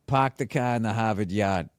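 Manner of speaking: Boston accent. Shown as a demonstration. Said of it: "there's the joke".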